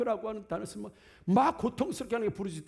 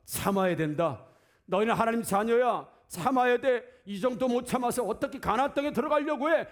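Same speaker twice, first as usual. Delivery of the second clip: stern scolding; 3 dB louder than usual. Acted. Imagined God scolding hungry people.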